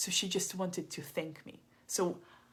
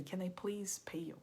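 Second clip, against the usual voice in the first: pleading whisper; 6 dB quieter than usual. Retold or imitated. Woman offering to pay.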